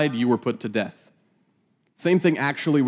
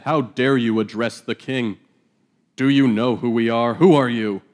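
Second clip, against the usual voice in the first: indignant challenge, growing louder; upset, indignant; 3 dB louder than usual. Acted. Abner scolding David for addressing the king, indignant. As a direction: take offense at being called out. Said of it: "And Abner gets upset".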